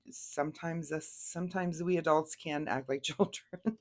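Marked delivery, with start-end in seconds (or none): 2.0-3.8 breaking into laughter at the end; amused, words giving way to laughter; laughing. Real, not acted. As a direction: let a laugh take over the last word. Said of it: "I don't mean to be laughing".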